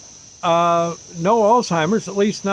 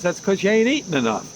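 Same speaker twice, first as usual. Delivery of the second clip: quick, higher, blunt doctor voice; gruff doctor; 4 semitones higher, faster than usual. Retold or imitated. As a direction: scold him fast like the old doctor. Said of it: "that's just how he said it".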